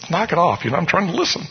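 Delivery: exasperated scolding in a pew; irritated hushed scolding. Retold or imitated. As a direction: shush a giggling friend, irritated. Elbowing snickering friend in church.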